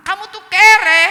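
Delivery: high, very loud acted insult; scornful shout. Friend insulting the would-be house buyer, scornful shout. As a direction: imitate a friend yelling an insult, last word drawn out.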